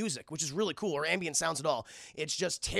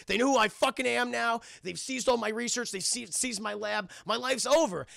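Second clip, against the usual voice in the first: higher-pitched distraught complaint; acted upset outburst; 5 semitones higher than usual. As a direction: whine about everything being lost. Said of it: "he's upset".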